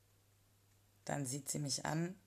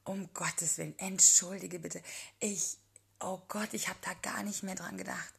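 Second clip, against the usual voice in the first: embarrassed; 4 semitones higher, 6 dB louder than usual. A narrator's reading. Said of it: "schlägt sich die Hand vor den Mund".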